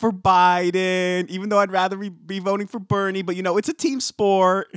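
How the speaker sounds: hammed-up Boston Dunkin' Donuts girl accent. Imitating the Dunkin' girl coming to vote, loud Boston accent. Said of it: "the Dunkin' Donuts girl".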